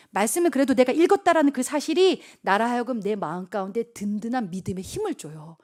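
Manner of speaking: ordinary delivery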